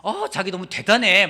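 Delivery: loud, slow mock-gushing wife; wife's praise. Pastor voicing his wife praising his bargain, loud slow gush. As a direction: ham up the wife's admiring praise. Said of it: "저희 아내는".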